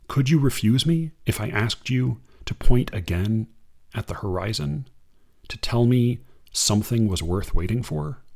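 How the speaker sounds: unhurried reading of verse; poem reading. Acted. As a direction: read it like a poem to an audience. Reads a Limon poem.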